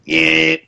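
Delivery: steady drawn-out buzzing noise; imitated clipper buzz. Telling friends about cutting his own hair, imitated clipper buzz. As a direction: mimic clippers running through hair.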